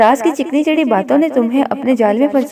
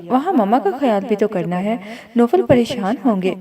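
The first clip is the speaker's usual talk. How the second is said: gentle, a little softer; lovingly; 3 dB quieter than usual. Acted. Saba gently reassuring worried Nageen, softly. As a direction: coax her kindly, softly. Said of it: "प्यार से कहा".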